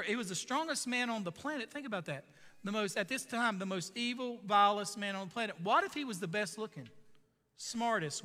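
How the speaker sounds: preaching with rising emphasis; impassioned preacher; sermon delivery. Acted. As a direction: drive the point home to the congregation. Preacher expounding to congregation.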